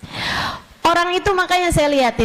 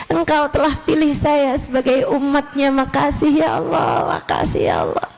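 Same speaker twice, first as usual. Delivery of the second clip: heartfelt prayer. Acted. Opening prayer voiced to Allah.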